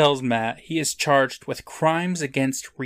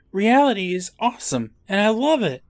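higher pleading voice; begging; 7 semitones higher than usual. Acted. Matt begging the judge, mild high pleading. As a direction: plead a little desperately. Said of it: "begging forgiveness".

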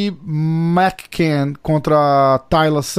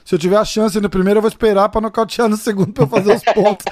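imitating Diego; 3 semitones higher than usual. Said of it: "ele falou mais ou menos isso".

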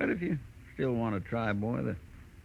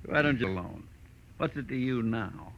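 normal talking voice

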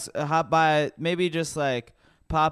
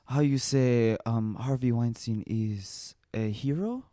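put-on French accent; 4 semitones lower, 5 dB quieter than usual. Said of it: "that's how you do the French accent".

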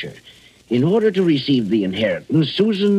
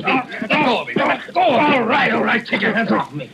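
higher, alarmed pleading while grabbed; panicked struggle; 10 semitones higher than usual. Acted. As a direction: fight him off in a panic. Matson struggles while being grabbed.

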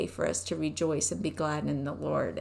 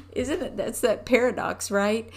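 bright question; 3 semitones higher, 3 dB louder than usual. Real, not acted. Same question, now bright.

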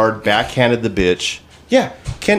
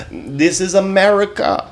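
high hammed-up English accent; a put-on English accent pitched up, mocking her; 9 semitones higher than usual. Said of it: "like in an English accent".

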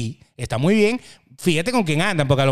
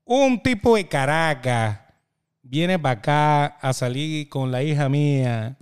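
stern father; 4 semitones lower, slower than usual. Retold or imitated. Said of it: "Me dijo".

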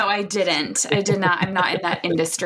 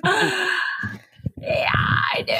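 high gasping yeah, then whispered; overcome, gasp then breathe it out; dramatic excited reply; 11 semitones higher, much slower than usual. Retold or imitated.

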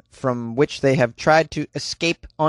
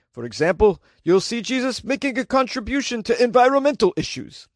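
put-on old Jewish man voice; 6 semitones higher than usual. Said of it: "I was doing an old Jewish man, uh, voice".

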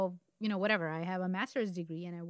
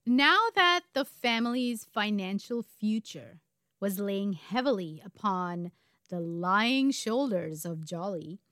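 measured, emphatic storyteller; story narration. A narrator's reading. Co-host telling a true crime story, story narration. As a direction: pace it out, leaning on key words.

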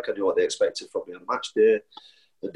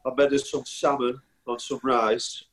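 imitating teammate's reply. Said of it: "his classic return would be".

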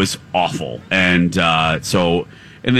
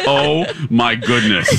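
laughing; 2 semitones higher, slower than usual. Real, not acted. Laughs at Dawn's tiredness.

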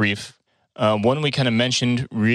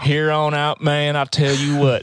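Southern drawl; 3 semitones higher than usual. Pretend. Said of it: "I'm only talking like this from now on".

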